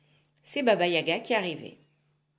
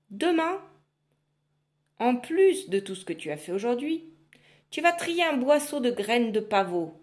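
louder, higher menacing witch; loud witch warning; threatening witch; 3 semitones higher, 4 dB louder than usual. Acted. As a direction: threaten her with relish.

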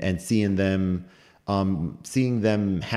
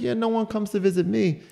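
high, lightly voiced sweet old lady; a hint of a Southern old lady, pitched up; Texan old lady; 14 semitones higher than usual. Hospital neighbour teasing the visitors, high sweet old lady. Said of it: "She's like".

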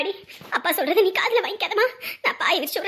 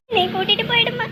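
pleading; 2 semitones higher than usual. Acted. Girl pleads to dead mother.

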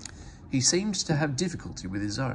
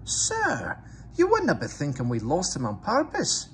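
high, hurt Scottish protest; Scottish twins sounding wounded; wounded Scottish engine to the Fat Controller; pained Scottish accent; 7 semitones higher, 4 dB louder than usual. A narrator's reading. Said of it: "the twins looked pained".

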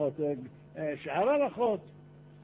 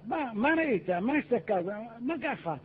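higher-pitched, curious crowd pressing for news; eager questioning; 5 semitones higher than usual. Acted. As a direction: ask like curious onlookers. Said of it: "שואלים אותו".

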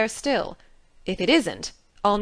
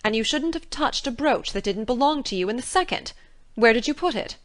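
put-on stern older woman scolding, louder; 5 dB louder than usual. A narrator's reading. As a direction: lecture the child severely. Marilla scolding.

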